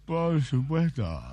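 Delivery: slow, deliberate answer as the Japanese record holder; lightly voiced Japanese man, drawn out. Japanese man answers the interviewer, slow and proud.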